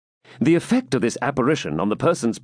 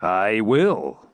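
calm, unhurried spectre; low-key, unruffled reply; very composed; 3 semitones lower than usual. A narrator's reading. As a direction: answer with perfect composure. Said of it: "said the spectre very composedly".

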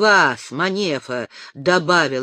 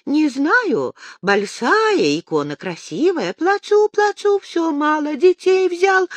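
put-on drunk crying; 10 semitones higher, 4 dB louder than usual. A narrator's reading. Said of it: "Остяк пьяно всхлипнул".

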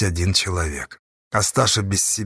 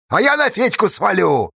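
higher, brash and defiant; 11 semitones higher than usual. A narrator's reading. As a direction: throw it back in his face. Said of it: "нагло и с вызовом ответил". (нагло, с вызовом)

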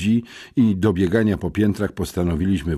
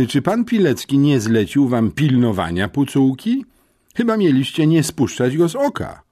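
louder, higher stern headmistress rebuke; stern scolding; 7 semitones higher, 5 dB louder than usual. Acted. Headmistress scolding the pupils who tried to flee, loud and stern.

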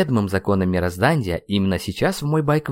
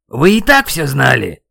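loud, raised-pitch accusing shout; shouting over wind; 4 semitones higher, 8 dB louder than usual. A narrator's reading. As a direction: yell it over a headwind. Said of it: "Старался я перекричать встречный ветер". (крик сквозь встречный ветер)

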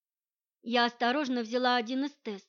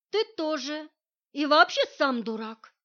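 парируя; 4 semitones higher, 5 dB louder than usual. A narrator's reading. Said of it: "парировала я".

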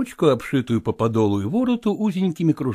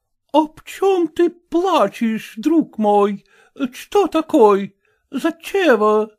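slow, puzzled, high, with a German lilt; surprised question; 10 semitones higher, much slower than usual. Acted. Landlady asks the crying girl, slow and puzzled. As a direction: ask in honest surprise, slowly. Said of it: "удивлённо спросила".

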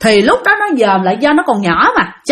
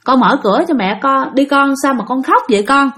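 lightly voiced soothing mother; gentle, calm; 2 semitones higher than usual. Mother coaxing her crying child to open the door, gentle and calm. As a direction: coax a crying child, calmly. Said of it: "mẹ của nó mới nhẹ nhàng, bình tĩnh nói".

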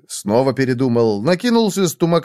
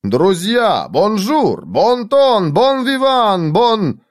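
high declamation, climbing word by word; florid oratory; 9 semitones higher, much slower than usual. A narrator's reading. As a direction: greet the crowd with swelling pomp. Grand speech resumed.

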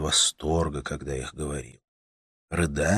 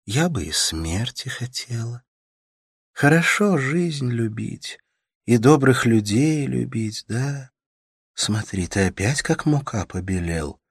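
put-on higher, tender young woman soothing a sick man; Katerina's voice; 7 semitones higher, 4 dB louder, slower than usual. A narrator's reading. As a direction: coax him gently, voice lifted high. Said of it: "Katerina speaks wistfully".

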